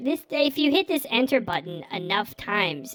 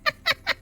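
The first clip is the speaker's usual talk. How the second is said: high-pitched laugh. Real, not acted. Laughs mid mock scolding.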